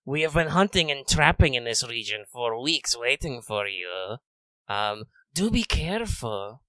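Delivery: a hunter toying with his prey; Radamus lizard voice. Acted. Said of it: "I'm doing kind of a lizard man voice, so I have to roll my S's".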